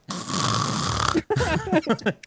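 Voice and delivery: high, rasping mock snore; imitated snoring. Streamer showing how he fell asleep, snoring. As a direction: snore noisily as if just dropped off. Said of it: "I was like".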